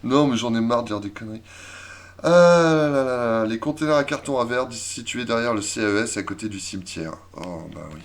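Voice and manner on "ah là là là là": loud slow "ah là là"; exasperated drawn-out sigh. Real, not acted. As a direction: drag it out, weary.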